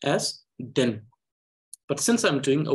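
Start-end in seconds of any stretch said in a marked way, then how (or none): 0.6-1.0 "then" as a separate syllable with full emphasis; syllable reading. Shown as a demonstration. Teacher shows syllable reading as against word reading, fully emphasized. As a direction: sound out "then" fully on its own. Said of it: "If I was doing the syllable reading".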